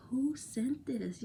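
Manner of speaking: hushed, puzzled whisper to herself. Retold or imitated. Vlogger retelling finding the money, whispered. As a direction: breathe it out in disbelief. Whispering her confused reaction.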